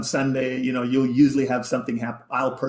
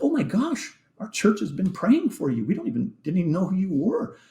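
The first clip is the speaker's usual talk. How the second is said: excited churchgoer; 8 semitones higher than usual. Retold or imitated. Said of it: "They're like".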